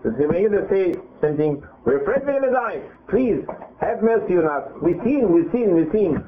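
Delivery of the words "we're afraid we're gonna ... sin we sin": higher, pleading cry of frightened people; mock pleading. The people beg the prophet for mercy, a higher pleading voice. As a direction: beg for mercy like a scared crowd.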